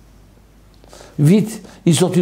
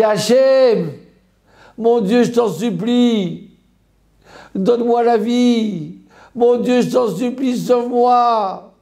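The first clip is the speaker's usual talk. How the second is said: higher, slow imploring cry; desperate plea to God; 6 semitones higher, slower than usual. Retold or imitated. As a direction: beg God for your life, drawing out each word. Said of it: "je crie de tous mes entrailles". (supplication implorante et lente)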